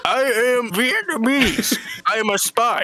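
hammed-up Vietnamese accent; put-on Vietnamese accent. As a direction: announce yourself in a Vietnamese accent. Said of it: "Are you putting on an accent?".

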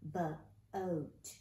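"Bo-oat" split into first sound and rest. Shown as a demonstration. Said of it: "we're gonna sound out".

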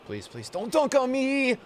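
mock pleading. Real, not acted. Begging opponent not to score.

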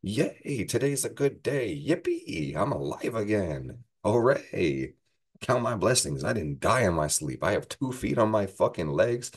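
high, bubbly over-the-top glee; the happy moon waking up overjoyed, hammed-up glee; giddy cheer. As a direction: squeal it like a kid on a sunny morning. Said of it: "being like".

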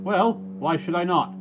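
high, loud, slow indignant shout. Acted. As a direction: fling it back furiously. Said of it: "shouted the voice called Mus' Reuben".

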